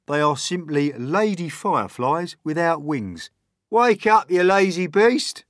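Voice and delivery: high, loud gruff creature voice; loud grumpy centipede. A narrator's reading. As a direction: bark at the sleeping glowworm. Centipede voice in reading.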